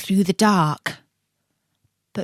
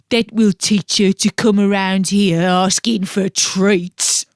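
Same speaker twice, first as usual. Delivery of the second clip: grumpy carp; 4 dB louder than usual. Acted. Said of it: "grumped Colin".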